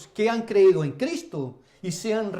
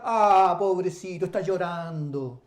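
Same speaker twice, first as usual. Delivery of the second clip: mock pity; 4 semitones lower than usual. Acted pitying words, denied of God.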